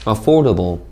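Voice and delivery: "affordable" with stress on FORD; careful word stress. Shown as a demonstration. Teacher models "affordable" for students, careful word stress. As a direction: punch the second syllable of "affordable". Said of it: "강세 주의해서 잘 읽으셨습니까".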